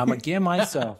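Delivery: weight landing on "myself"; stress on "myself". Shown as a demonstration. Friend coaching his buddy on the line, stress on "myself". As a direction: lean on the word "myself". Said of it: "I'm putting emphasis on the word".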